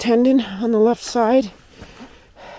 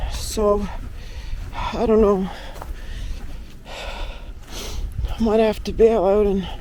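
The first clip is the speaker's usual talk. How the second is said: winded, puffing between phrases; breathless from the climb; out of breath; slower than usual. Real, not acted. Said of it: "Sorry if I sound out of breath".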